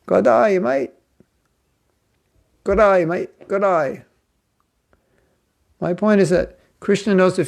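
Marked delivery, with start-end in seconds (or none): 0.1-4.0 overdone high-pitched Australian accent, almost New Zealand; Australian on steroids. Shown as a demonstration. Joking he overdid New Zealand, exaggerated Australian accent. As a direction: lay the Australian "g'day mate" on thick. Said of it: "I'm Australian on steroids".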